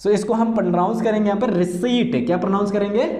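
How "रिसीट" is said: रिसीट said as "ri-seet"; रिसीट with a long "ee" straight into T; silent P. Shown as a demonstration. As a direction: leave the P out of रिसीट. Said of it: "पी को छोड़ दिया जाएगा".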